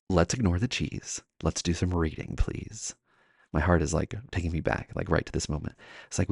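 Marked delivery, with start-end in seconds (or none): 0.1-3.0 slow, hushed teacher calm; restrained teacher voice, softly measured; quiet, controlled frustration. Retold or imitated. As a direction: rein it in, fading to a whisper. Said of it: "I do this thing with my voice".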